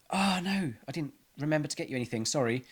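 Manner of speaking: high, fast flustered gasp of dismay; mock panic. To the birthday person, a mock flustered apology. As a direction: act out the panic of a forgotten birthday.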